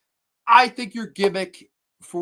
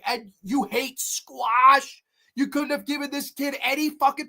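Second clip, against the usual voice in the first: incredulous mockery; 4 semitones higher than usual. Real, not acted. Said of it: "Dude, what?".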